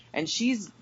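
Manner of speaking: ordinary talk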